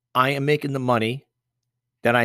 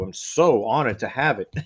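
sarcastic. Shown as a demonstration. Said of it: "I'm being sarcastic".

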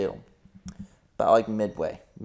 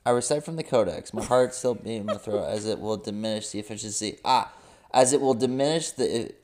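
fast reading; faster than usual. Acted. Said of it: "I think it's your Codex voice".

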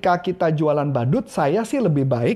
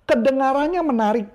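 lightly higher, sing-song kedengarannya; auditory talker; 6 semitones higher than usual. Shown as a demonstration. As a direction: voice an auditory buyer. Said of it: "Dia ngomong gitu". (sedikit meniru gaya auditori)

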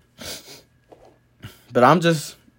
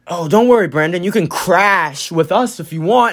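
corny joke; 3 semitones higher than usual. Retold or imitated. Imitating friend's parents offering him a ride home, corny. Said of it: "it's corny as fuck".

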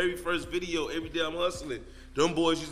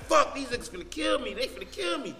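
higher, panicked inner thought; panicked fear; 6 semitones higher than usual. Retold or imitated. Hiding under the car, panicked fear. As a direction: dread that they'll kill him. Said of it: "I'm like".

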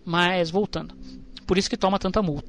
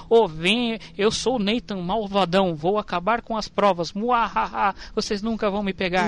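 hammed-up cartoon villain gloat; mock evil villain taunt; mustache twirling villain. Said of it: "malvadão, muahaha".

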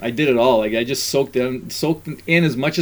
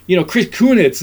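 put-on excited kid; 5 semitones higher than usual. Voicing his excited kid.

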